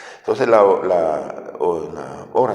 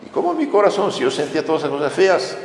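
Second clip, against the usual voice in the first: plaintive protest; 8 semitones higher, much faster than usual. Retold or imitated. Saint protests to the Lord.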